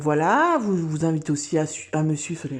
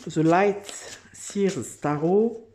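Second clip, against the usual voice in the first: slow English title in a thick French accent; much slower than usual. Real, not acted. Tarot vlogger names her deck in French-accented English. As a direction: drag out the English name in a strong French accent. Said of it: "Désolée pour mon accent anglais".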